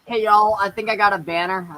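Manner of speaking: lightly southern-accented announcement. Real, not acted. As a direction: let a southern accent slip out. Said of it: "I just gave out my southern accent".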